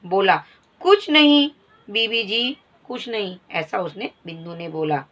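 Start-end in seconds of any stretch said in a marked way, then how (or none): 0.8-3.4 lightly voiced scared boy; timid servant boy. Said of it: "मतलब एकदम शांत".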